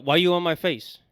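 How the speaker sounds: imagined street-tough challenge, rising on the repeat; mock confrontational challenge, building slightly; American ghetto confrontation. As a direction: square up and challenge him, as if acting it out. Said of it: "my American ghetto will come out".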